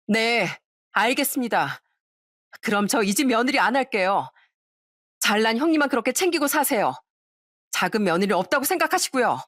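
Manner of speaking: mild acted angry outburst. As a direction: storm out on the in-laws, only half raising the voice. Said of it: "끝내 동서는 소리를 치고 말았습니다". (살짝 언성 높여 쏘아붙이는 연기)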